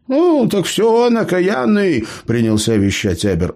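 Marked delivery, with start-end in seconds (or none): 0.1-2.0 put-on high-pitched cheeky old gnome; pitched-up gnome, boasting to the bandits. A narrator's reading. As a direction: play the crafty gnome, pitched well up. Gnome Eber lectures.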